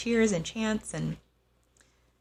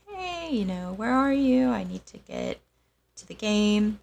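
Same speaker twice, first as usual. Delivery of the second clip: higher, louder pleading to her late father; retold worried call, voice pitched up; anxious phone call; 6 semitones higher, 5 dB louder than usual. Calling father, late for game.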